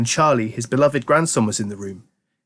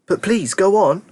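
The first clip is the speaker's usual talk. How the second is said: put-on eager boy; 8 semitones higher than usual. A narrator's reading. Charlie urging Grandpa Joe on, high and eager. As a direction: beg him to go on.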